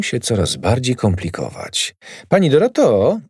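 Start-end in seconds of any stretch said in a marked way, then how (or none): 2.3-3.2 sweetly coaxing, higher call; butter up the neighbour; fawning "Pani Doroto"; ingratiating. Acted. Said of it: "zaczął przymilnym głosem".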